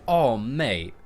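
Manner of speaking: "Oh, mate" said with a falling tune; demo intonation. Shown as a demonstration. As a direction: demonstrate the phrase "Oh, mate". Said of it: "it's about how you say it".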